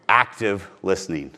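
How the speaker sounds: slow it right down on the repeat; slow, deliberate coaching repeat; slow emphatic repeat. Shown as a demonstration. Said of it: "Not pretending to listen".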